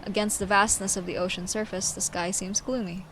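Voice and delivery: measured, solemn storyteller; formal, carefully phrased character monologue; dramatic story reading. Acted. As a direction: read it as a grave, deliberate tale. Reads character's lines and narration.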